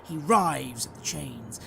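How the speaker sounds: intense, drawn-out scene setting; dramatic game master narration. A narrator's reading. Game master describing wails of agony, dramatic narration.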